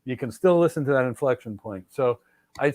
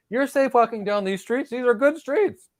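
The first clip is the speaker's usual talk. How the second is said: much higher, hammed-up politician promise; mock politician; 10 semitones higher than usual. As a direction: sell it like a slick politician you don't believe. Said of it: "Watch these politicians speak".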